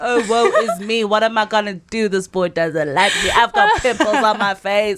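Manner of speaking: hammed-up teenage whine, fast; mock the moody teen self; mock dramatic sigh. Mocks her sixteen-year-old self's drama.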